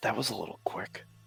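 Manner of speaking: very soft, quiet mutter under the breath. Narrating Ellie as a player sits down, muttered under breath. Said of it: "she mutters under her breath".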